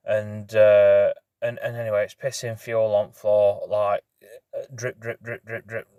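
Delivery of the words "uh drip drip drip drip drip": imitated dripping. Shown as a demonstration. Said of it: "that's literally how fast it was coming out".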